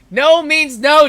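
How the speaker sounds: slow, high laughing protest; laughing no means no. Shown as a demonstration. Narrator breaks off to joke at the bully with a laugh. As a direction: stretch it out through a laugh. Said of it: "Did you just say no?".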